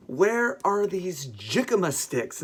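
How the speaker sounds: slow question, "jicama" said JICK-uh-muh with an English J; mispronounced jicama. Retold or imitated. Shopper asking Mexican produce manager, slowly mispronouncing jicama with English J. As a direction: ask slowly, saying "jicama" with a hard J. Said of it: "and I said".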